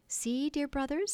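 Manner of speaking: high, theatrical call to look; Wendy the heroine, rapturous. Acted. Wendy to her brothers beneath the window, rapturous. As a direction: direct their eyes upward with lofty delight.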